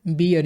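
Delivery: बियर said in two syllables, bi-yar; Indian-English बियर, "bee-yar"; Indian pronunciation. Shown as a demonstration. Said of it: "Indian accent में".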